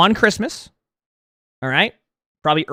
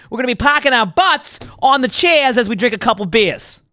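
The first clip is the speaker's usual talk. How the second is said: Boston bar guy; 2 semitones higher than usual. Pretend. Streamer hyping a Boston pub crawl to chat, rowdy Boston guy. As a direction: sell the night out like an excited buddy.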